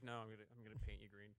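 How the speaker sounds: low, soft, fast mock menace; mock Hulk threat. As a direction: mutter a goofy monster threat. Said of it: "and I was like".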